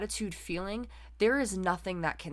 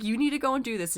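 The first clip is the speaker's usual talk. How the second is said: mock insistent push, pitched higher and louder; pushy urging; 6 semitones higher, 4 dB louder, faster than usual. Friends who skipped the race pressuring her into it, higher, louder insistent urging.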